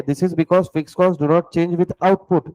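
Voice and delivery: very slow note-taking dictation; teacher dictating a definition slowly. Acted. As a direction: spell it out word by word for students to write. Dictates notes to class.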